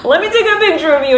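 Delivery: high, fast, loud eager photographer voice; excited photographer. Retold or imitated. Photographer eagerly asking the crying viewer for a picture. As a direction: gush like someone begging to snap a photo. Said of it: "They're like".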